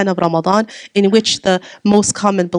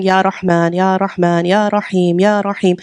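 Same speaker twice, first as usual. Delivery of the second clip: dhikr recitation. Shown as a demonstration. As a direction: recite each name of God calmly, like dhikr. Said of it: "I'm saying".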